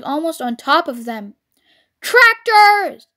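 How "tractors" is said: high, loud cry of alarm; shout. A narrator's reading. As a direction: shout a one-word warning. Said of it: "shouted Mister Fox".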